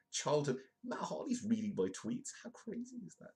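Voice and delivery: high-pitched, amazed squeal; giddy fan. Acted. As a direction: voice shooting up in fan excitement. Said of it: "and you're like".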